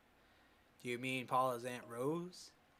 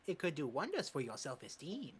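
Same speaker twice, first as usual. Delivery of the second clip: put-on higher East Asian accent for the old coach; 10 semitones higher than usual. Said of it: "don't cancel me for this accent".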